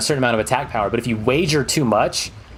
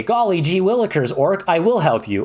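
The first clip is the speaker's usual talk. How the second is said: higher, gee-whiz hero voice; hammed-up wholesome adventurer; eager adventurer; 6 semitones higher than usual. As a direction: play an over-keen helper, pitched up. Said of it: "And you say".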